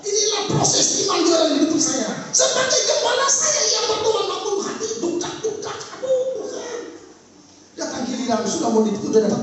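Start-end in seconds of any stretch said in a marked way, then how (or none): 2.3-6.8 higher, worried plea to God; anxious plea. Retold or imitated. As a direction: lay bare the troubled heart. Anxious pastor praying. (gembala berdoa dengan hati cemas, nada tinggi)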